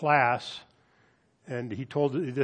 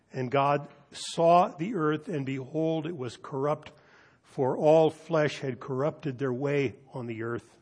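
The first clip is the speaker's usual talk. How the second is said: unhurried Bible reading aloud; scripture reading. Acted. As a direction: read the passage with solemn weight. Scripture reading before the sermon.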